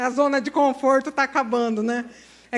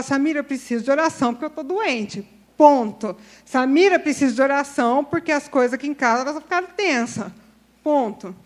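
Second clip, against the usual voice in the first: blunt and direct; 5 dB louder than usual. Shown as a demonstration. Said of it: "Você tem que ser direto".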